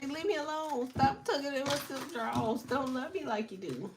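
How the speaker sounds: sing-song it like a teasing brush-off; mock whine. Vlogger playfully voicing relatives who tell her leave me alone. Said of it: "Say, say, what they say".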